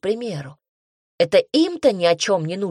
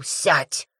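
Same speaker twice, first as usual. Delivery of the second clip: barked order; 3 semitones lower than usual. A narrator's reading. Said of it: "а Ратмир вдруг рявкнул".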